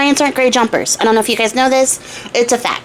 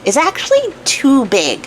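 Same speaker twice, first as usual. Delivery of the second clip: fussy tailor; 3 semitones lower, slower than usual. Retold or imitated. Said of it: "the tailor is like".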